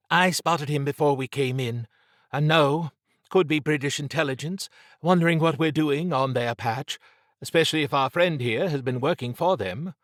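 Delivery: Trish, alert. Acted. Voices Trish in dialogue.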